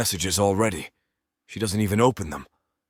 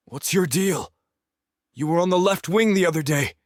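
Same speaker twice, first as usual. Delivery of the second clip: put-on higher, different young man's voice; teammate voice; 10 semitones higher, 4 dB louder than usual. A narrator's reading.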